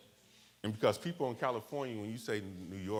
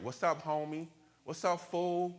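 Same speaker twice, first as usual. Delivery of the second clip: higher-pitched South Central drawl; South Central street drawl, louder and higher; 8 semitones higher, 6 dB louder than usual. Retold or imitated. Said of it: "they have a certain, like, draw to their voice".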